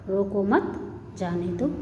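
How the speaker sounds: "रोको मत", a beat of silence, "जाने दो"; pause after मत. Shown as a demonstration. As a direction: keep "मत" with "रोको", then pause. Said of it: "इसको इस तरह से पढ़ेंगे". ("रोको मत" पर विराम, फिर "जाने दो")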